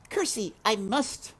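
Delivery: high, blurted announcement; Mig shouting. A narrator's reading. Mig shouting at the princess, high. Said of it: "shouted Mig".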